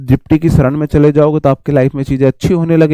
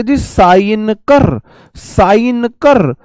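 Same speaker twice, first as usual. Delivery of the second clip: bossy order; 5 semitones higher, much slower than usual. Retold or imitated. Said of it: "तो साइनोक्योर को आप बोलोगे".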